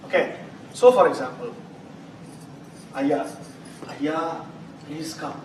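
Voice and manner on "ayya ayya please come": respectful. Shown as a demonstration. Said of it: "What is the tone I am conveying?".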